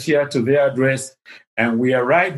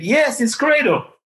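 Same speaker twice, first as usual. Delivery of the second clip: imitating her reply; 10 semitones higher than usual. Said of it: "Missus Hillman said".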